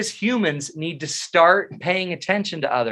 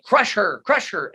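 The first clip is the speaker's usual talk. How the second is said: inner primal voice; 5 semitones higher than usual. Retold or imitated. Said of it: "my fight or flight is like".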